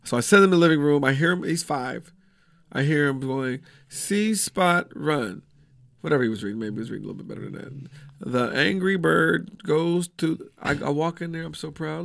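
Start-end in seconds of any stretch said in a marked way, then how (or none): 3.9-5.4 slow, word-by-word early reader; mock child reading very slowly; kid reading aloud. 8.3-10.5 halting, slow beginner reading; mock child slowly reading a storybook; kid reading aloud.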